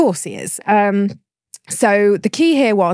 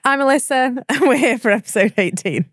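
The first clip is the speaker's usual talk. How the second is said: cheerful; 8 semitones higher than usual. Acted. Mock cheerful energetic intro.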